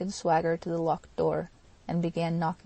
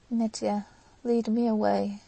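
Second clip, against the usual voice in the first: helpless; 2 semitones higher, 3 dB louder than usual. Acted. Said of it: "said Grushenka helplessly".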